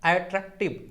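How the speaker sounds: "अट्रैक्टिव" with a slight gap after अट्रैक्ट; pause inside word. Shown as a demonstration. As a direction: break "अट्रैक्टिव" before its final syllable. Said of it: "अट्रैक्ट के बाद थोड़ा सा देखिए pause".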